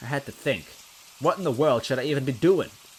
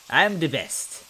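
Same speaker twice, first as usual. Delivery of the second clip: psyched up; 6 semitones higher, 5 dB louder, slower than usual. Acted. Luigi psyching himself up.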